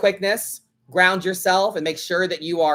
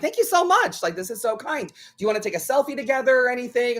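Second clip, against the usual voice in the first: high, eager thank-you; mock-sweet gratitude; gracious delight; 5 semitones higher, faster than usual. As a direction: retell her own sugary politeness. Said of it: "And I'm like".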